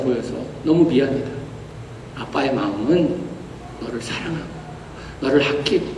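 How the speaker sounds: low, soft, gentle plea for forgiveness; tender apology. Retold or imitated. Kneeling father asking his trembling son's forgiveness, tender and soft. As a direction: speak softly to a frightened child.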